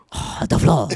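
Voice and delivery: lightly voiced woman's impression; girlfriend impression. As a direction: say it as a hint of the girlfriend. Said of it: "this is Bob's impression of my girlfriend".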